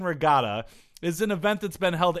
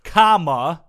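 exasperated comma; 9 dB louder than usual. Acted. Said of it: "the comma made me angry".

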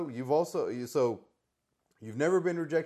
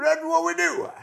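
higher, louder shouting wrestling promo; hammed-up shouting wrestler rant; Ric Flair impression; 9 semitones higher, 11 dB louder, slower than usual. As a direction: build a wild boastful promo, whooping.

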